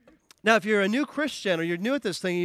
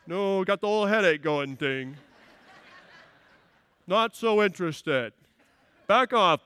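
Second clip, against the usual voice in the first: reluctant wife. Retold or imitated. Preacher mimics a wife with a headache, mildly dismissive. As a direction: lightly voice a wife fending him off. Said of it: "what's she gonna say?".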